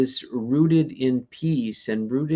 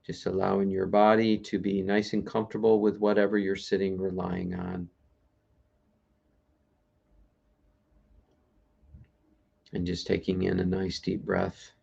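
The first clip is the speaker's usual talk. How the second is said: low, unhurried meditation voice with long pauses; guided meditation; 3 semitones lower than usual. Real, not acted. Meditation host settling listeners into letting go, guided meditation voice. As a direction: ease listeners gently into stillness, leaving long pauses.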